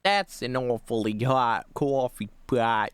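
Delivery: slow, drawn-out New York accent. Shown as a demonstration. Streamer testing how New York they sound. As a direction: lean on the New York vowels in "coffee". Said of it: "how New York can I actually say that".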